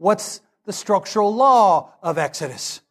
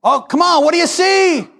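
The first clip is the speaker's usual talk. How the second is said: louder and higher, pleading for an answer; exasperated professor; 9 semitones higher, 6 dB louder than usual. Retold or imitated. Professor pressing the silent class, louder and higher. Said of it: "we hear this voice".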